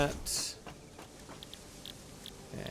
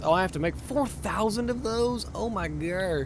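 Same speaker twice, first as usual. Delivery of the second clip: surprised; 6 semitones higher than usual. Real, not acted. Shocked at big order.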